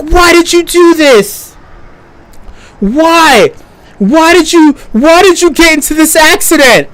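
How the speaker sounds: mock accusing bystanders. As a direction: imitate strangers demanding answers. Bystanders pressing him, retold.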